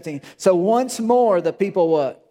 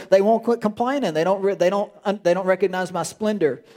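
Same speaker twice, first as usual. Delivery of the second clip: God complaining; 4 semitones higher than usual. Retold or imitated. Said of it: "He says".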